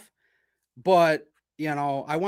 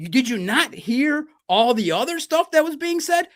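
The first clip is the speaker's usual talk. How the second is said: much higher, louder, slow disbelief; retold indignant protest; 9 semitones higher, 4 dB louder than usual. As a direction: plead unfairness to the bouncer. Protesting bouncer throwing him out.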